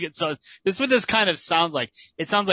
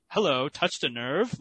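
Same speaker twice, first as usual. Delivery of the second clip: smug reply; 3 dB quieter, slower than usual. Pretend. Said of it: "I'd say".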